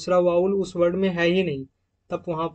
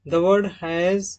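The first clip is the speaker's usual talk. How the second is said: the word has read very slowly and deliberately; very slow dictated rule; 4 dB louder, much slower than usual. Shown as a demonstration. Teacher reading a rule very slowly for students to note down. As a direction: drag out each word of the rule. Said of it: "rule number third".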